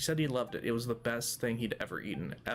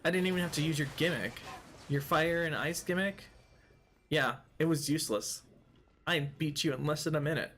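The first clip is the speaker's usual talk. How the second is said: taunting; 2 semitones higher than usual. Real, not acted. Taunting defeated enemies.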